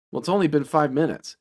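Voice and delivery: understated, matter-of-fact quote; deadpan. Retold or imitated. Podcaster quoting the film's good delivery, deadpan. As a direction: deliver it deadpan, like a dry retort. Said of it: "Very deadpan, almost immediately interrupted".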